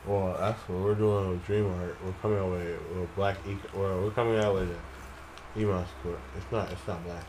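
talking while crunching ice; words around a mouthful of ice; chewing ice. Real, not acted. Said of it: "You're chewing the ice, bro".

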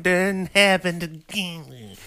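high, slow, drawn-out mock-dreamy line; hammed-up heavenly cooing; mocking imitation. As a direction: stretch it high to ridicule the sappy ending. Mocking the movie's hated ending.

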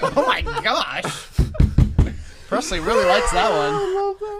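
high, slow words through laughter; cracking up mid-sentence; laughing. Real, not acted. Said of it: "That sounded like a dinosaur right there".

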